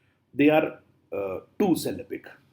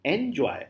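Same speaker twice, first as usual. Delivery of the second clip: "Enjoy" with emphasis on the second syllable, JOY; stress on JOY; 3 dB quieter than usual. Shown as a demonstration. Teacher explaining stress on joy, not N, stress on JOY. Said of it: "putting stress on the word joy".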